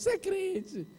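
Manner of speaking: high, soft squeaky taunt; thin high mock teasing, not shouted; mock jeering believers. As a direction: imitate snickering in a small high voice. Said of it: "os crentes que riram da minha cara".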